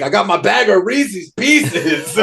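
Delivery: lightly goofy imitation, stretched out; imitating a bandmate. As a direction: draw it out proudly, on the edge of laughter.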